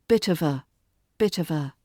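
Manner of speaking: "bit of a" run together as "biddova"; linked form. Shown as a demonstration. Teacher showing how "bit of a" blends together. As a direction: blur "bit of a" into one quick word.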